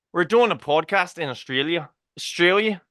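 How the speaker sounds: jokey stab at an Australian accent; Australian accent attempt. Shown as a demonstration. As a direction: try on an Australian accent for a podcast. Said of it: "in the Australian accent".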